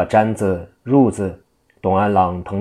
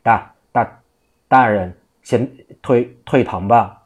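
stammering, panting servant with a raised voice; out of breath; 3 semitones higher, 3 dB louder than usual. Acted. Servant rushing into court, panting and stammering at the prefect. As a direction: gasp out the words after running in. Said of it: "气喘吁吁地跑上堂来说道".

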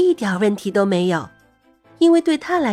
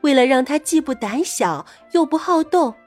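put-on gentle storybook voice for kids; reading to a toddler. A narrator's reading. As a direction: read it sweetly to a little child. Reads a dog story to kids.

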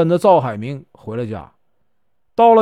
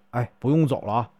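quietly; 4 semitones lower, 6 dB quieter, faster than usual. A narrator's reading. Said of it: "和尚小声说".

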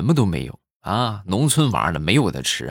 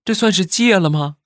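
much higher, excited and hopeful; delighted mother; 12 semitones higher, 4 dB louder than usual. Retold or imitated. Mother delighted the boy may be weaned, excited high voice. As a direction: squeal with happy hope. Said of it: "他妈当时很开心".

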